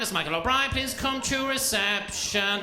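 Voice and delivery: sing-song receptionist announcement; irritating receptionist accent. Retold or imitated. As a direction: page someone like an irritating receptionist. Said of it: "Why do receptionists talk with that most irrit- tainting accent".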